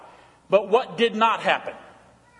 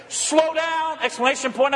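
blunt command; 8 semitones higher than usual. Retold or imitated. Pastor rereads wife's blunt text as an order. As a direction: snap it out like an order. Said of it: "such a blunt, direct text".

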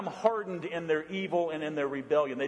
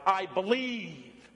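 drawn-out congregational declaration, only mildly raised; proclaimed creed; 4 semitones higher, much slower than usual. Shown as a demonstration. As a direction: proclaim it slowly for others to repeat. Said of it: "we shout".

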